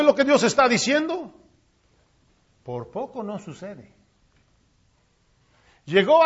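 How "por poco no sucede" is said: very soft, sinking low; awed near-silent; hushed. Acted. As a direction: breathe it out. Hushed repeat of near-miss.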